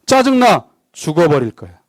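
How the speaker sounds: half-acted sulky outburst; mock irritation. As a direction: toss off a grumpy complaint, lightly acted. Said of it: "짜증나 죽어버릴까 말만 했는데".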